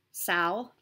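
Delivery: "Sal" in a sudden odd accent; stray accent. Shown as a demonstration. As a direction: slip into a quirky accent on "Sal". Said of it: "I don't know where that accent came from".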